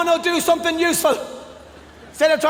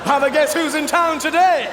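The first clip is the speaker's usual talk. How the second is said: showy announcement. Retold or imitated. Comedian showing his own DVD.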